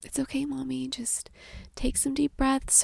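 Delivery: lightly voiced child calming mommy; imitating her daughter. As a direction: daughter gently soothing her upset mom. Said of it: "she was just like".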